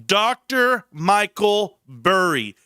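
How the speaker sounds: slow, deliberate Doctor Michael Burry with weight on Doctor; mock formal correction. Shown as a demonstration. To the chat, correcting himself with slow mock-formal respect. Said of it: "Excuse me".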